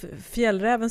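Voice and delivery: Fjällräven said the Swedish way, fjell-reh-ven; Fjällräven with Swedish vowels, as a native says it; Swedish pronunciation. Shown as a demonstration. Host to foreign listeners, naming the brand in Swedish. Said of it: "we are saying it now how it's pronounced in Sweden".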